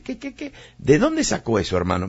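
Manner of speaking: mock shocked "what, what, what?"; incredulous objection. Preacher voices a doubting listener, shocked disbelief. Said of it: "Usted va a decir".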